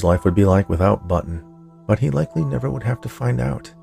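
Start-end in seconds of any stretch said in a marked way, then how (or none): none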